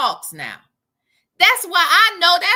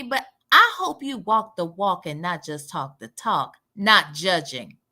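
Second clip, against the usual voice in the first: Sonya; 10 semitones lower than usual. Acted. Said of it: "read the part that really sounds like Sonya".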